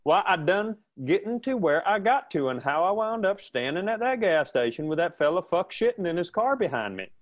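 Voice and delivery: high Southern hick voice. Retold or imitated. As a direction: play the country fella. Continuing the Southern character.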